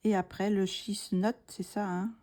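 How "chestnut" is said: CHESTNUT said as "chisnot" with a French accent; French-accented try at the English word "chestnut"; sotaque francês no inglês. Real, not acted. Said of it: "c'est mon accent, euh, anglais".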